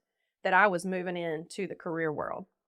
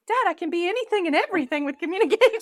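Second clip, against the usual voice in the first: mock defiant; 9 semitones higher, 5 dB louder than usual. Defiant reply to dad.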